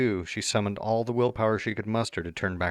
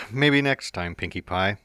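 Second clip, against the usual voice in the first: chiding; 3 dB louder than usual. Acted. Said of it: "I chided".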